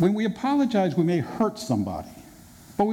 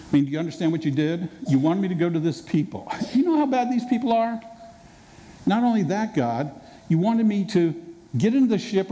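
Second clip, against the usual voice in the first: Jonah blaming God. Retold or imitated. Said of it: "could you imagine Jonah ... just saying".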